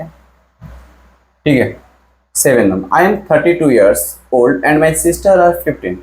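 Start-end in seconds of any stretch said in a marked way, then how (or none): 2.9-6.0 reading the sentence out slowly and clearly; teacher reading a test sentence slowly; slow dictation reading. Shown as a demonstration. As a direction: dictate "I am thirty-two years old and my sister are fifteen" at half speed. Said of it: "तो यहाँ बताओ".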